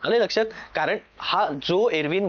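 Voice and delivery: ordinary delivery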